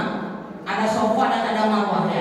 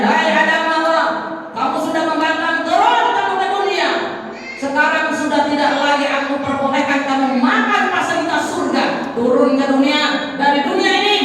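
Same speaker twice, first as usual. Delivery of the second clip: raised, commanding decree; stern divine voice; 3 semitones higher than usual. Acted. Preacher voicing Allah banishing Adam, raised and commanding.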